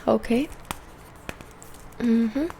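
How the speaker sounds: gentle half-whispered soft speech; soft spoken voice. Real, not acted. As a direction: speak softly, like a calm spa host. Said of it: "this video is going to be in a soft spoken voice".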